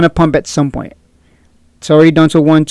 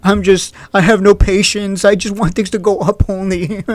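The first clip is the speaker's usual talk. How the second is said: mock whining. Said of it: "people start crying".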